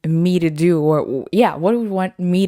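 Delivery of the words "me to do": sassy challenge. Retold or imitated. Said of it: "I was like".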